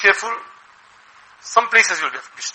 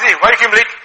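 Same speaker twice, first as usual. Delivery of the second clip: louder, pushy demand from a mere staff member; a staffer scolding the boss, out of line; indignant staff; 4 semitones higher, 5 dB louder than usual. Retold or imitated. Staff member wrongly challenging the boss, in a louder indignant voice. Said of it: "But if the staff says".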